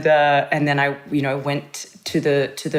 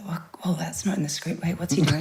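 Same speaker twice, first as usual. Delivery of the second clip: whisper; 3 semitones higher, 5 dB quieter than usual. Retold or imitated. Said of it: "So I was a bit, bit thrown".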